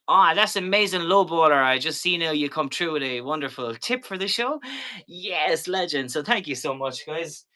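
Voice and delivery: high, loud excited shoutout; excited thanks. Real, not acted. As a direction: cheer the tipper.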